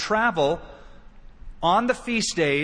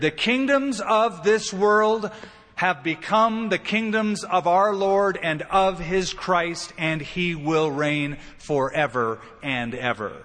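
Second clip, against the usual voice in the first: proclamation; slower than usual. Acted. Angel's proclamation read solemnly.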